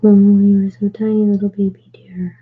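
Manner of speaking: loud coo fading to a whisper; overwhelmed by cuteness. Real, not acted. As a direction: gush over the tiny deer. Cooing at tiny figure.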